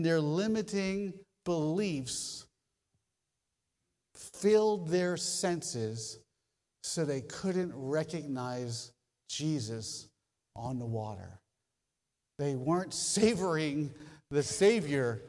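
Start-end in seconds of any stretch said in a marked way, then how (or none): 4.1-11.4 slow dramatic hush. Acted. Slow dramatic sermon lines.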